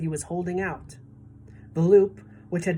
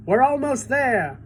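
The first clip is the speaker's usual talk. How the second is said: eager grasshopper; 7 semitones higher, 5 dB louder than usual. A narrator's reading. Grasshopper urging.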